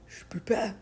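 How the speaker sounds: lost voice, whispering; barely voiced, hoarse; whispered hoarse voice. Real, not acted. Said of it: "Je peux pas parler".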